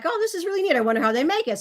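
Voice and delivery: bright high gush over candy; delighted. Retold or imitated. Retelling her excitement in the car over taffy, high gushing. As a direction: sound thrilled by the treat. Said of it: "I'm like".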